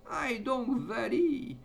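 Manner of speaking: high, drawn-out herding call; calling to the calf. Acted. Farmer to his little calf, high urging call. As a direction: call out high to drive an animal on.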